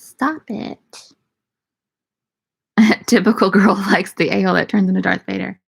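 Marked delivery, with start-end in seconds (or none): 0.0-0.8 cooing. Real, not acted. Cooing at cat.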